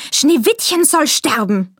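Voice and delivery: Zorn. A narrator's reading. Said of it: "rief sie".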